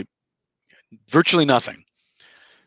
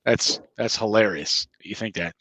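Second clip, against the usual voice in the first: laughing it off. Pretend. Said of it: "I like to laugh and go like".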